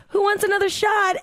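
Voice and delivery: very high, sing-out party call; high-pitched retold party cheer; rallying call. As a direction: call out a round to the group. Retold call for another round.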